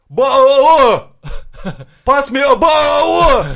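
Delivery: ба-о with a glottal stop, slow, high, loud; mock Cockney, dropping the t in ба-о; Cockney accent. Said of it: "как англичане говорят".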